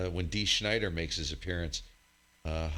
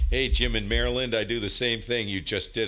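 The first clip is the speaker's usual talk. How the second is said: loud radio hail; calling out; 3 semitones higher, 6 dB louder than usual. Real, not acted. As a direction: hail him loud over the air.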